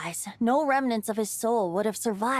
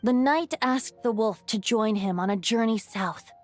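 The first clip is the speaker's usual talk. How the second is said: story narration. Acted. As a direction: spin the tale like a bard by the fire. Bard tells the legend.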